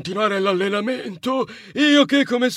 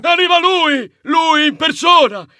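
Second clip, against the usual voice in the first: excited announcement; 4 semitones higher than usual. Acted. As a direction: shout the big reveal. Cousin announces the champion.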